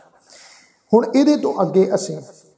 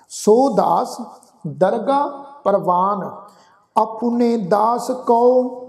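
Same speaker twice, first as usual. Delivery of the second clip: scripture recitation; much slower than usual. Acted. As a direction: intone each phrase with long pauses.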